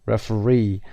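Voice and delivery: "Referee" with the final -ee stressed; stress on third syllable. Shown as a demonstration. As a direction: put the weight at the end of "Referee". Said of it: "The third syllable is stressed".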